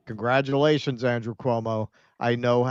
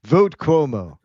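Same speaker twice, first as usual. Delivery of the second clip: whisper scream; 5 semitones higher, 10 dB louder than usual. Retold or imitated. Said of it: "It's a whisper scream with Elon".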